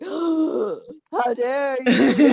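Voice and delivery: very slow, hammed-up indignation; mock outrage. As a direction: stretch it out, pretending to be insulted. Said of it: "You'd be like".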